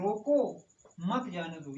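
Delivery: रोको set apart, मत joined to जाने दो; pause after रोको. Shown as a demonstration. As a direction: slowly break after रोको, then run मत जाने दो together. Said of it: "यानी उस किसी को रोक लो". ("रोको" पर ज़ोर देकर विराम, फिर "मत जाने दो" साथ में)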